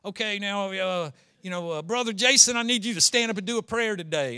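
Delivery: lightly imitated pastor calling on someone; Southern pastor. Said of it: "the pastor would get up there".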